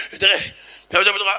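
lightly voiced, pitiful chick; sick-chick voice. Heckler backing down about Torah, sick-chick voice. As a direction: falter like a fragile little bird. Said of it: "קול של גוזל חולה עם בעיות רגשיות".

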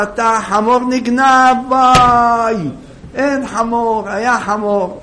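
the donkey's gone, wail it out; alarmed cry. Acted. Wife crying out that the donkey was stolen.

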